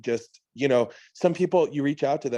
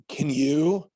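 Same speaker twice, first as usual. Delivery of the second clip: losing voice; 2 semitones higher than usual. Real, not acted. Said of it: "like, losing my voice".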